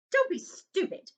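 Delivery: sharp mock scold from a stern aunt; snapped. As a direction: bite the words off like a cross aunt. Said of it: "snapped Aunt Petunia".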